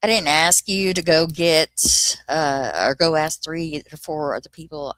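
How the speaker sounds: sharp, loud retelling of telling her off; retold anger. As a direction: let the irritation burst out as you quote yourself. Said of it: "And I was like".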